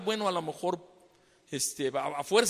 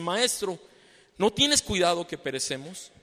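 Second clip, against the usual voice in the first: louder, urgent cry for help; desperate plea; 6 dB louder than usual. Retold or imitated. Disciples waking Jesus in the storm, loud and urgent. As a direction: shout over the wind to the master.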